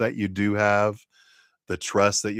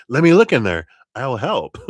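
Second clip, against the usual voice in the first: playful maiden; 6 semitones higher, 9 dB louder than usual. Retold or imitated. Voicing the maiden with the lion.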